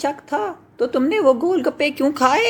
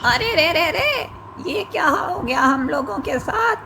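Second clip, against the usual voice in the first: higher, frightened cries; panicked; 5 semitones higher than usual. Acted. Brothers fleeing the witch, higher and panicked. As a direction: flee in terror.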